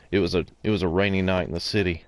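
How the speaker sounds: fast, hard-boiled inner monologue; lightly voiced film noir narrator; noir detective. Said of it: "like, this inner monologue and everything".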